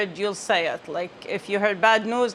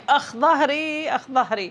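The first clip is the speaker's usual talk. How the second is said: imitating a pained groan; 4 semitones higher than usual. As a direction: groan it like tired daily aches. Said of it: "me going every day at home saying".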